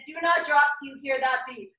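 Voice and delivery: fast coach shout. Real, not acted. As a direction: urge them to hold.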